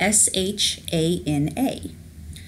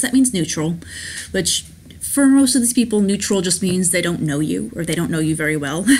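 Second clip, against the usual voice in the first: normal talking voice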